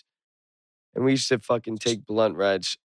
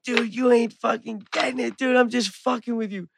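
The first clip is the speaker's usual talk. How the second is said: teasing; 11 semitones higher than usual. Retold or imitated. Teasing friend in the car.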